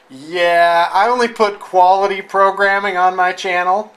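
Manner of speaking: mock self-important reply. Host imagines the guest refusing his video, mock self-important. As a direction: imitate a picky channel owner, loudly. Acted hypothetical reply from channel owner.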